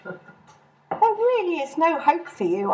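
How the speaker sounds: slow, exasperated put-down; weary sigh. Acted. Hilary giving up on Mary, slow and exasperated. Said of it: "I sighed".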